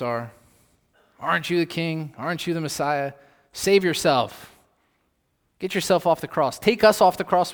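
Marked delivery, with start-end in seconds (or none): 1.2-7.5 jeering taunt, louder at the end; mocking thief. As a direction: voice the thief's mockery. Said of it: "one thief is yelling insults".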